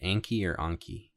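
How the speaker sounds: "Anki" first with a as in cat, then with ah as in father; two ways to say Anki. Shown as a demonstration. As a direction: say "Anki" both ways, ANN-kee then AHN-kee. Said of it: "how do you say it?".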